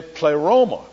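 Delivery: pleroma stressed on the wrong syllable; mispronounced pleroma. Retold or imitated. Preacher recalling how his teacher said it, pleroma misaccented. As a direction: lean on the middle of pleroma, play-ROH-ma. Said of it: "with the accent on the wrong syllable".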